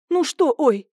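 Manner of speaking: almost shout the question; near shout. A narrator's reading. Husband losing patience with his wife, near shout. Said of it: "уже почти закричал Андрей".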